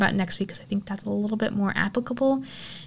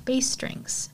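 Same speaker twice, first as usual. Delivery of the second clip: a soft breathless higher whimper; 5 semitones higher, 4 dB quieter than usual. Retold or imitated. The broken mother answering Izzy, in a whimper. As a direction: whimper it out, beaten and small. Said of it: "in a whimper".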